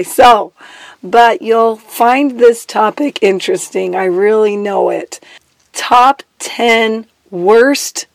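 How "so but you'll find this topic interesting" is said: usual speaking voice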